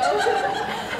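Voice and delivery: a high, delighted laugh; bright laugh. Acted. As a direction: laugh with pleasure at the compliment. Fairy laughs at compliment.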